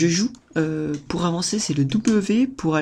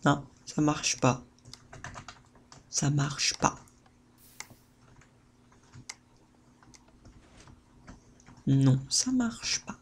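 deflated; 4 dB quieter, slower than usual. Real, not acted. Thing fails.

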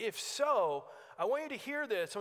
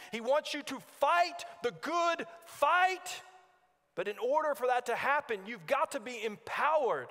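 impassioned preaching; 3 semitones higher than usual. Real, not acted. Preacher calling the congregation to repentance, impassioned preaching. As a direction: preach it with conviction.

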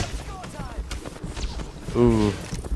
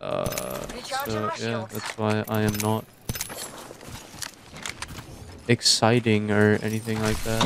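sleepy and groggy, words trailing; just woke up; 6 dB quieter than usual. Real, not acted. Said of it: "I just woke up from a fat nap".

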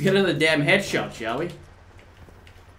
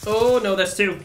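excited surprise; 7 semitones higher, 4 dB louder than usual. Real, not acted. Surprise multikill in game.

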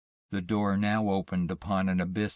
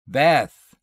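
loud, high cry of alarm; alarmed call; 6 semitones higher, 10 dB louder than usual. A narrator's reading. Husband calling into silence for Beth, alarmed. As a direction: shout the name in rising panic. Frightened man calls missing wife.

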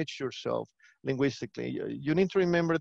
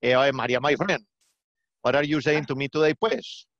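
put-on lilting Colombian accent from Medellín. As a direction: imitate a friendly Colombian from Medellín. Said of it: "Medellin, Colombia".

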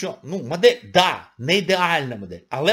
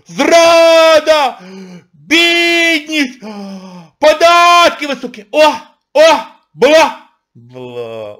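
mock screeching crowd; 11 semitones higher, 12 dB louder, much slower than usual. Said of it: "Ой, як ви верещали!".

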